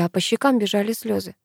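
plain reading voice

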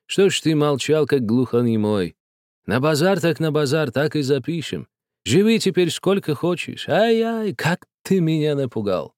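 lightly voiced relieved old man. A narrator's reading. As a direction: forgive the guest cheerfully. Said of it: "умиротворённым голосом".

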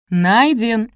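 high, loud roared answer. A narrator's reading. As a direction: bellow it back, high and drawn out. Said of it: "заорала толпа ещё сильнее".

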